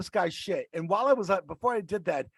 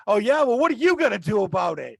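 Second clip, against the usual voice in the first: retold taunt; 3 semitones higher, 5 dB louder than usual. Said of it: "what I hear".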